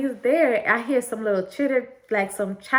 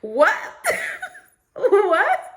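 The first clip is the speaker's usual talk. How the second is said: high, louder disbelieving what; surprised what; 11 semitones higher, 4 dB louder than usual. Retold or imitated. Reacting to her friend's halftime proposal idea, high surprised what. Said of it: "And I'm like".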